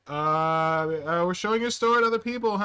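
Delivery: loud, high, flustered excuse with awkward laugh; spooked. Retold or imitated. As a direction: act caught out, over-bright nervous cover-up. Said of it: "after that, I got spooked".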